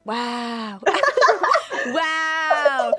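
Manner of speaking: loud burst of laughter; laughing. Real, not acted. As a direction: crack up at yourself. Laughing at own slip.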